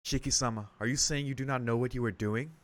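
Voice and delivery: lightly voiced formal maid; careful, measured questioning as a servant; polite, concerned maid.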